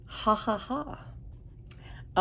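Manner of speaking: breathy whispered ha ha ha, slow; whispered laugh. Pretend. Vlogger whispering the shade's playful name, slow whispered laugh. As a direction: breathe the laugh out softly, drawn out.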